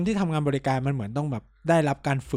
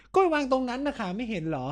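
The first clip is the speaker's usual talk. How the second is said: higher scornful reply; mock snippy nurse; 8 semitones higher than usual. Friend replays nurse's rude reply to his question. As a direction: throw the line back like a rude nurse.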